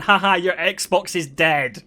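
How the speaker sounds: drawn-out sing-song jeer; mocking sisters. Sisters laughing at brother's broken Xbox, slow mocking jeer. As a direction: imitate teasing sisters, slow and gloating. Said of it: "laughed at me and went".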